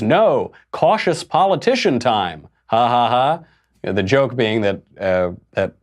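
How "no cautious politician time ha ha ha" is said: mock Hillary punchline. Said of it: "And she says".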